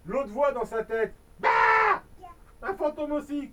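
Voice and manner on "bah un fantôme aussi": ghost boo. Acted.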